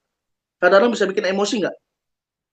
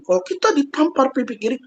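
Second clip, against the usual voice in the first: raised-pitch, combative imitation of a TV preacher; mock militant advice, higher and emphatic; Mama Dede; 5 semitones higher than usual. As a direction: fire back a scolding call to fight, pitched up. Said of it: "Mama Dede langsung bilang gini".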